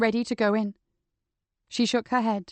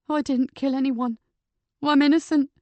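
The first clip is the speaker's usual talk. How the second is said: desperate protest; 4 semitones higher, 3 dB louder than usual. Acted. Shale protests while led away.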